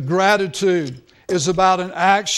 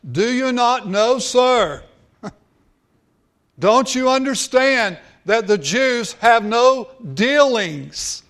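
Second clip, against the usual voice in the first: raised, insistent voice of a shocked woman; shocked questioning; 4 semitones higher, 3 dB louder than usual. Retold or imitated. Samaritan woman to Jesus at the well, shocked and questioning. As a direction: act out her disbelief, higher and pressing. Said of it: "she was shocked".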